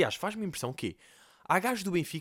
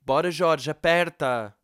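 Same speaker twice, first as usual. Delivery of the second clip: shouting trainer; 2 semitones higher, 6 dB louder, slower than usual. Retold or imitated. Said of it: "ouve-se a P T, tipo".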